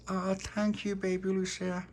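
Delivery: soft, high, touched little voice; tender thanks. Acted. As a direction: thank a baby gently. Tony tenderly thanks the baby.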